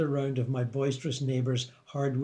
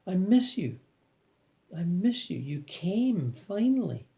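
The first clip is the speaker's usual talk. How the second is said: put-on higher, enthusiastic old Chinese man; unabated enthusiasm; 5 semitones higher, slower than usual. A narrator's reading. Old man greeting his returned friend, enthusiastic. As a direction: keep up the joyous welcome, pitched high. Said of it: "continued with his enthusiasm unabated".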